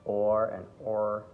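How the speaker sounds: drawn-out "or" and "or", differing in the R; contrasting R sounds. Shown as a demonstration. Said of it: "you see the difference between".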